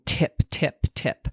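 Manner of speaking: crisp tongue-tip "tip"; T sound demo. Shown as a demonstration. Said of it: "with the T sound".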